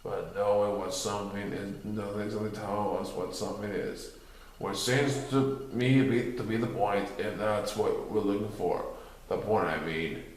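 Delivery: low, soft, mopey donkey; gloomy Eeyore. A narrator's reading. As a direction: drag it out like a glum donkey.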